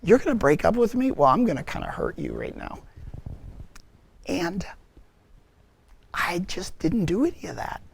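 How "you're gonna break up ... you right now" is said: a mildly sour, spiteful quip; imitating a petty jab; mock guilt trip. Man imitating the guilt trip he didn't use on girlfriend, mildly spiteful. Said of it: "try to make her feel guilty".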